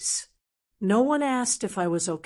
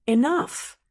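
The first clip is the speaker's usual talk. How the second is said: sudden loud high outburst; loud, higher cry of enough after years of hurt; shout; 5 semitones higher, 4 dB louder than usual. Acted. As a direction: shout it to silence the whole room. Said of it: "I stood up and shouted".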